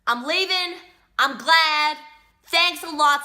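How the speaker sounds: bitter parting shot. Real, not acted. Prisoner leaving the interview, bitterly sarcastic. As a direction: toss bitter thanks on the way out.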